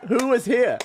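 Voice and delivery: high accusing voice. Retold or imitated. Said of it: "I'll be like".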